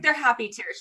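high voice imitating happy crying; retold tearful reply. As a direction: squeak it like a mom tearing up. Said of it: "I started crying".

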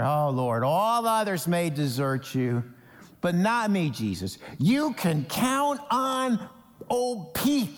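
imitating a boastful Peter, slow on the promise; a touch of cocky swagger. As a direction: play Peter bragging of his loyalty. Peter's boastful vow voiced.

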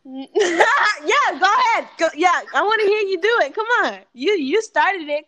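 loud laughing urging. Real, not acted. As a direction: laugh while egging him on.

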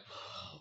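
voiceless gasp of panic; retold frightened exhale; panicked breath. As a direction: let out a soft, alarmed breath.

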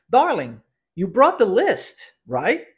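slow, clearly modelled phrase for repeating; teacher's careful repeat-after-me delivery; pronunciation drill model. Shown as a demonstration. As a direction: stretch "you brought the list", then a short rising "right?". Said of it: "Vamos à pronúncia da frase".

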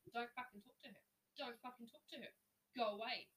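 repeated angry order, loudest on go away; angry command. Retold or imitated. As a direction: bark it at him, protecting her. Ordering the man off the woman.

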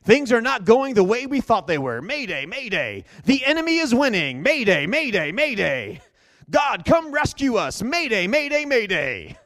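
loud desperate pleading shout; mayday radio call. Acted. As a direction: cry out for rescue, desperate. Acted panicked mayday cry.

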